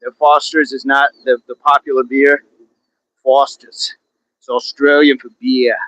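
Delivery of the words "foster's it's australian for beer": lightly put-on Aussie ad slogan; amateur Australian accent. Showing off best accent on beer slogan, mock Australian. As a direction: attempt an Australian accent, a touch subdued. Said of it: "That's about the best my accent gets".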